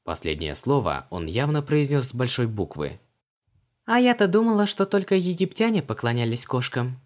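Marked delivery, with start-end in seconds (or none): 3.8-7.0 put-on much higher, musing young woman; Vanessa's voice. A narrator's reading. Vanessa muses about Egyptians and cats, high. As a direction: pitch it up and wonder aloud. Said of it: "задумчиво произнесла Ванесса".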